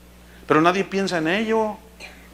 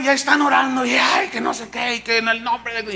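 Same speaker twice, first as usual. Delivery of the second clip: tag; 3 semitones higher than usual. Retold or imitated. Mimics frenzied group prayer.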